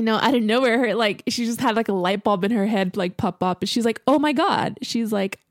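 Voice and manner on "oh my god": high, loud burst of a bright idea; sudden excitement. Retold or imitated. Friend suddenly thinks of a match, loud excited high outburst. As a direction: blurt it as the idea hits.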